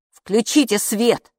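mildly bossy, drawn out; commanding. A narrator's reading. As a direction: give a firm, measured command. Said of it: "велел Капо".

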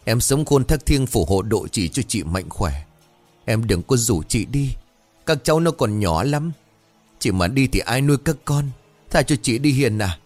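wailing plea. Acted. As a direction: beg the dead cousin to spare her. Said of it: "rồi gào lên".

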